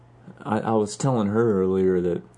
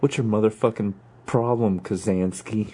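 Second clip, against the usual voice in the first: lightly voiced sweary challenge; a hint of movie tough guy; Samuel L. Jackson. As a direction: confront a rival pilot, mildly in character. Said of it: "Iceman and Maverick as Samuel L. Jackson".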